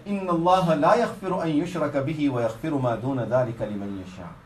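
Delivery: rapid chanted recitation of the verse; Quran recitation. Acted. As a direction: recite the ayah quickly in one breath.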